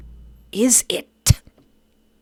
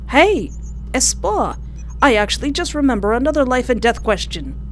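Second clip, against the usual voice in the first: eager interruption; 4 semitones higher than usual. Acted.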